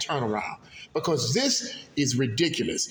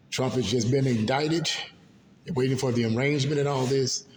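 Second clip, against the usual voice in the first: ordinary delivery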